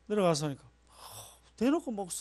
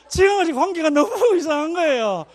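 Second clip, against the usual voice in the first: laughing mid-sentence; 9 semitones higher, 10 dB louder than usual. Real, not acted. Laughing over awkward relationship.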